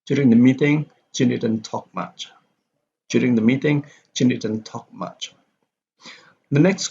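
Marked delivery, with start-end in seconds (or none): 0.0-2.3 don't stress "Jane"; Jane unstressed. Shown as a demonstration. Teacher demonstrates a repeated name, "Jane" without stress. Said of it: "does not need to be stressed". 3.1-5.3 "Jane" said lightly, sentence falling away; Jane unstressed. Shown as a demonstration. Teacher repeats the meeting example, "Jane" without stress. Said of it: "does not need to be stressed".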